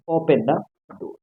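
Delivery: very slow, word by word; slow dictation. Shown as a demonstration. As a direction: drag each word out for students.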